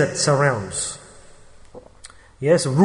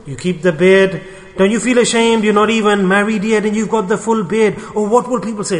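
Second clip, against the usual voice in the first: imitated nagging, pitched up; shaming nag; 5 semitones higher than usual. Relatives shaming an unmarried man about his beard, nagging reproach. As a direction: act out a relative's higher-voiced reproach.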